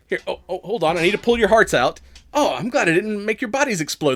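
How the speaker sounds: lightly voiced Valley Girl goddess; flustered, bubbly Valley Girl hostess. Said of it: "She's like".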